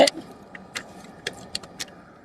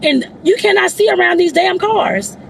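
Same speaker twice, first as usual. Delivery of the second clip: higher-pitched griping at reckless drivers; frustrated ranting; 5 semitones higher than usual. Real, not acted. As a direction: vent your annoyance while driving. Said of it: "I ain't mean to do all that cursing".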